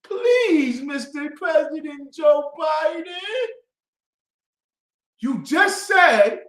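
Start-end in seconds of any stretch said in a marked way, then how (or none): 0.0-3.0 mock plea. Voters pleading with President Joe Biden, mock begging. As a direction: beg like a child asking for crumbs.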